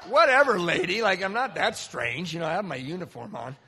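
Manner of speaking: loud, indignant brush-off, voice jumping high on whatever; an offended guy snapping back loudly; indignant retort. Retold or imitated. Guy snapping back at the woman who rejected him, loud and indignant.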